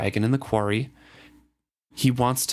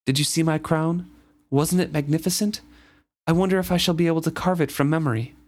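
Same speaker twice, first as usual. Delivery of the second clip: raised, rushed excited chatter; eager; 6 semitones higher, faster than usual. Acted. Reader voicing the fool asking about his crown, quick and excited. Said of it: "asked me suddenly".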